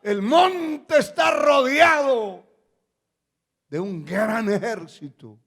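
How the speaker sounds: loud, high wail of alarm, drawn out; frightened cry. Retold or imitated. Trembling servant crying to Elisha about the army, frightened cry. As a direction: imitate a terrified servant crying out. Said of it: "estaba temblando, asustado, salió en la mañana y dijo".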